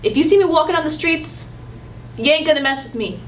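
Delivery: put-on tough New York street accent; mild New York accent. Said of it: "in New York".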